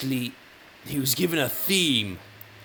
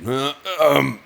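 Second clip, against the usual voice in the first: louder, raised voice with hemming and a cough; hesitant Bach; 7 dB louder than usual. Retold or imitated. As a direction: stall awkwardly like Bach asking for more time. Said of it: "Bach said".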